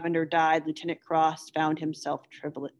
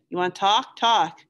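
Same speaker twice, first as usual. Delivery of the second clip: exasperated outburst; 3 semitones higher, 5 dB louder than usual. Acted. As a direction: throw it at him in the dark. Bowker challenges Kiowa to talk.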